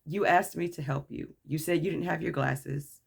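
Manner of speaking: measured, polite explanation. Retold or imitated. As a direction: explain yourself courteously, keeping the voice down. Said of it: "I politely said".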